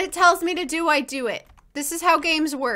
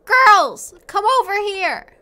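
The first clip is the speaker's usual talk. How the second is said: loud, higher call to the group; 7 semitones higher, 8 dB louder, slower than usual. Real, not acted. Gamer calls her Sims to come over, loud call.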